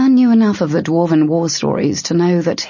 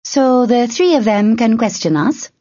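high, eager and chattery; gleeful nervous chatter; excited; 6 semitones higher than usual. A narrator's reading. Tern chatters on.

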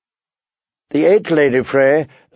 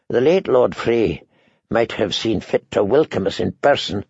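understated grumble; complaining; 3 semitones lower than usual. Acted. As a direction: complain mildly in a slightly lowered voice. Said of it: "he complained".

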